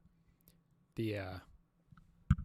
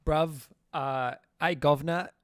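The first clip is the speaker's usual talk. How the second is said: loud, higher mock British slang; attempted British accent; 5 semitones higher, 8 dB louder than usual. Streamer guessing how British people talk, mock British accent. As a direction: hail someone in a put-on British accent. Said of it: "what do British people say".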